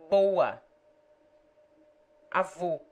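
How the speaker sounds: "Boa" and "Avô" with close o. Shown as a demonstration. Tutor demonstrates the close Portuguese o. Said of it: "O, close".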